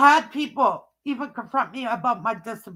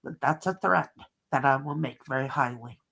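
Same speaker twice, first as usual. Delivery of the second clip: retold threat; 6 semitones lower, 6 dB quieter than usual. Retells threatening a teenager.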